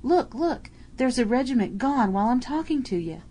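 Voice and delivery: high, loud amazed cockney soldier; excited shouting. Acted. Soldier yelling to his mate in the trench, amazed and loud. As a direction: yell your astonishment at the enemy falling. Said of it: "he bellowed".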